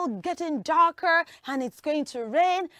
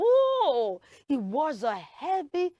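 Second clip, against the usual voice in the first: exclaiming; slower than usual. Acted. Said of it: "No, you say".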